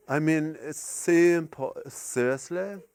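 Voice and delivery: understated middle-class English accent; attempted middle-class English accent. Shown as a demonstration. Canadian comic attempting to fit in, understated middle-class English accent. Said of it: "my attempt at doing a middle-class English accent".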